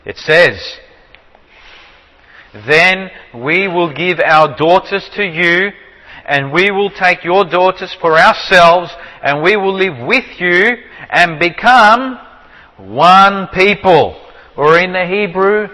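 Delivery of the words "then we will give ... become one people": slow, measured Bible reading; scripture reading. Acted. Teacher reads Genesis to the class, slow scripture reading. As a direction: read the verse out deliberately, phrase by phrase.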